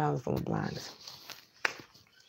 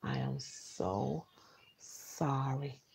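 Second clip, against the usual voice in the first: a hushed, slowing apology; 7 dB quieter than usual. Retold or imitated. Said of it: "She said".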